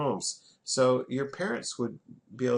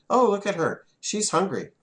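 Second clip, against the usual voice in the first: mock gossip; 5 semitones higher, 5 dB louder than usual. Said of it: "they wouldn't say".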